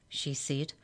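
plain reading voice

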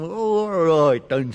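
slow, grudging worm voice; reluctant worm. Acted. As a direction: give in slowly and loudly. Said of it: "said Mudwiggle".

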